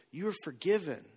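a hushed, tender release; tender forgiveness. Retold or imitated. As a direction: quietly reassure the weeping woman. Looks her in her teary eyes.

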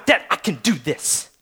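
a hint of an insistent little kid; lightly voiced independent child; imitating four-year-old. Four-year-old telling dad she can do it, mildly insistent. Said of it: "My four-year-old wants to do everything herself".

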